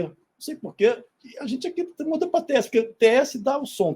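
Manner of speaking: ordinary talk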